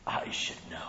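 whispered aside; sly whisper. Acted. Serpent confiding to Eve in a whisper. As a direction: breathe it as a secret.

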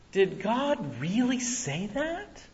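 slow, soft, insinuating serpent voice; sly serpent. Acted. Preacher voicing the serpent, hushed and sly. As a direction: drip doubt into her ear.

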